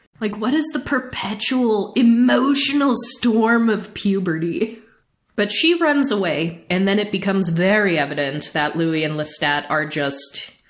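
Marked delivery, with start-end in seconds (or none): 0.8-4.8 heavy, pointed emphasis, leaning on each word. Speaker recapping an episode wonders aloud about a character, emphatic.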